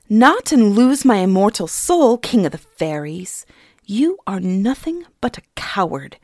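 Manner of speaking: put-on loud, bold challenge from the girl; defiant Suni. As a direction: stand up to the king. Suni defies the king.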